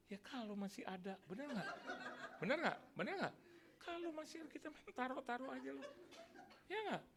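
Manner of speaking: high, laughing banter with the crowd; laughing tease. Real, not acted. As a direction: egg them on through laughter. Teasing the congregation, laughing. (menggoda jemaat sambil tertawa)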